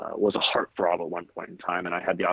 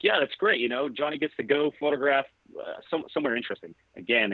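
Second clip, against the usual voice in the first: mock-sarcastic ribbing, first words pitched high; teasing; 5 semitones higher than usual. Ribbing a colleague over her assignments, sarcastic tease. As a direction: jokingly needle a coworker about the plum assignment. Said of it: "I was kinda ribbing her".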